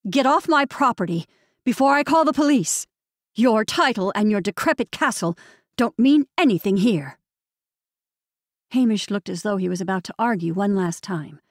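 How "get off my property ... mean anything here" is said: loud, higher harsh threat; tight and harsh. Acted. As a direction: order him off hard and cold. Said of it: "tight and harsh".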